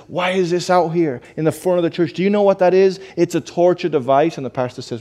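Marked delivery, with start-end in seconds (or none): 0.1-3.0 mildly acted indignation, challenging questions; offended man, retold. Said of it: "was so offended at the church". 3.1-4.3 imitated indignant complaint; a touch of acted outrage, said as an accusation; offended man, retold. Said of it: "was so offended at the church".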